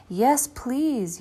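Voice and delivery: put-on children agreeing to bake; children's yell. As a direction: shout yes like eager kids. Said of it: "yelled the children".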